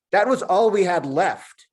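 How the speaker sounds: high, loud, slow monkey voice, reproachful; talking monkey. Acted. Monkey complains to Julian about the smashed radio, high and loud.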